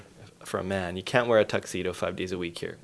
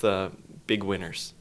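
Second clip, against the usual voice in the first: a mildly patronising, drawn-out compliment; slightly condescending. Real, not acted. To the guests, a slightly condescending congratulation. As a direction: pat them on the head with the praise. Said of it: "That was slightly condescending".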